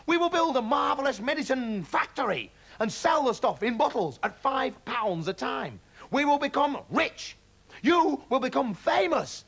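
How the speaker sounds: dream big out loud; dad carried away by riches; giddy excitement. A narrator's reading. Dad's excited get-rich plan.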